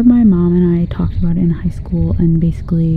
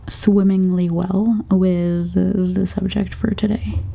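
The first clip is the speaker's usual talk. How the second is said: put-on British accent. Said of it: "I tried to do a British accent".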